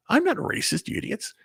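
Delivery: exasperated outburst. Real, not acted. Outburst at critics.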